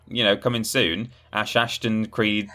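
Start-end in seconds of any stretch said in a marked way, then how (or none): 1.3-2.5 trying not to laugh at own joke; slow reveal, barely holding it together; suppressed laughter. Real, not acted. Announcing a spoof game title to co-hosts, holding back laughter. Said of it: "tried to get through that without laughing".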